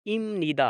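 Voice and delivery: इम निदा with an m where इप is written; Korean pronunciation demo. Shown as a demonstration. Teacher shows how इप निदा is really said: इम निदा. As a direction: say इम निदा, the p turned into m. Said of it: "तो इसको पढ़ेंगे".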